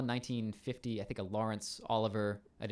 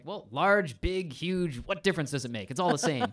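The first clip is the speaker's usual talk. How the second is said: high, louder, lilting Welsh brush-off; hammed-up Welsh commander; 5 semitones higher, 5 dB louder than usual. Welsh commander answering his companion's correction, hammed-up Welsh accent. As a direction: play a blustering Welsh commander, pitched up. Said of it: "a Welsh commander".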